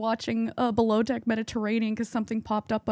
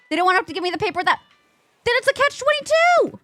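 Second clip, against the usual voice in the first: exasperated rant; 12 semitones higher, 4 dB louder, faster than usual. Real, not acted. Ranting about blood test paperwork.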